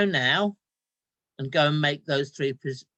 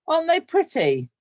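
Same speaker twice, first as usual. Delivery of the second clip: much higher, louder, bright eager call; eager child; 12 semitones higher, 8 dB louder than usual. Acted. Boy hurries to show mum his goldfish, high eager. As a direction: sell it hard, overly eager to distract. Boy distracts mother from missing dad.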